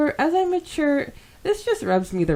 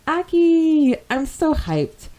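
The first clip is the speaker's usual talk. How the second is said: higher and louder, bursting with hype; excited squeal; 10 semitones higher, 6 dB louder, slower than usual. Real, not acted. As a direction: squeal the name like a fan. Gushing over favourite character.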